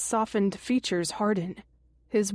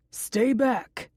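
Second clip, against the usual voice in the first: restrained, narrated warning shout; a touch of a shout to keep someone away; 3 semitones higher than usual. A narrator's reading. Jason warns the constable at the door, mild shout. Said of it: "Jason shouts".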